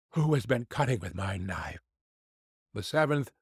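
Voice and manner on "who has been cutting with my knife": low, grumbling little dwarf; a lower dwarf, put out about his knife; gruff dwarf. Acted. Sixth dwarf to his brothers, a low grumbling voice.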